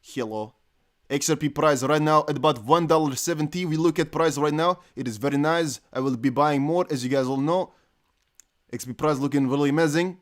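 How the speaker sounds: demonstrating a foreign accent in English; put-on foreign accent. Shown as a demonstration. Trying another accent, unnamed.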